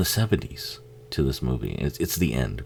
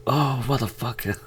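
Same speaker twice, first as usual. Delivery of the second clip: high, hushed freaked-out viewer; whispered scared guy; 10 semitones higher than usual. Retold or imitated. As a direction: play a guy half joking, half scared. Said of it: "one guy's like".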